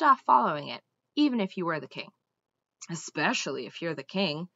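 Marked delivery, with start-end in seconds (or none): 2.9-4.5 reminding himself. A narrator's reading. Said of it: "Mendenbar reminded himself".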